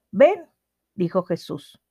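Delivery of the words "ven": calling out. A narrator's reading. Jesus calls Peter.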